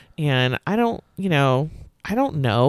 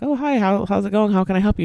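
higher, overly polite greeting; mock polite self; 5 semitones higher, faster than usual. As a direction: play your own fake-friendly hello. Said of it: "I'm like".

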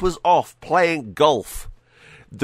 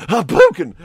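higher, louder fighting-game battle cry; Ryu shout; 9 semitones higher, 8 dB louder than usual. Retold or imitated. Ryu mid-move shouting his catchphrase, loud battle cry. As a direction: bark Hoboken like a special move. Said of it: "it sounds like Ryu from Street Fighter".

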